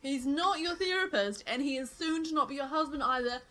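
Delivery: sassy telling off. Retold or imitated. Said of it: "I was about to be like".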